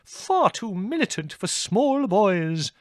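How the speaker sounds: high, loud, slow fussy voice; fussy character protesting; rattled disapproval. A narrator's reading. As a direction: draw it out in high-pitched dismay. Królewski disapproves, still rattled.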